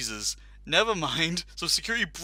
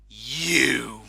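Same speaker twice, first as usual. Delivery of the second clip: stern yell; 2 semitones lower, 8 dB louder than usual. Retold or imitated. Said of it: "glares at him and just goes".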